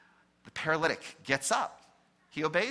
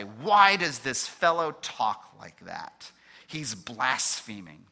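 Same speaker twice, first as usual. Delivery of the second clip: indignant; 3 semitones lower, 6 dB louder, slower than usual. Acted. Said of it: "They become indignant".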